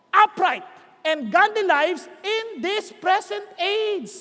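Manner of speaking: very slow, spaced-out declamation; emphatic scripture reading. Acted. Preacher reads to congregation what grace teaches, deliberate. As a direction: weigh each phrase, pausing between them.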